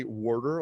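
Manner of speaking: "water" as "worter", New York style. Shown as a demonstration. Showing how New Yorkers say it, "water" with an added R. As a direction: put an R into the first syllable of "water". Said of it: "like there's an R in it".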